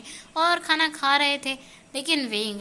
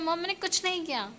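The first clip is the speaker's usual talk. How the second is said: higher, softer whiny plea; pleading son; 5 semitones higher, 5 dB quieter than usual. Acted. Lanzhan pleads with mom while his ear is pulled, whiny higher plea. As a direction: whine your innocence to mom.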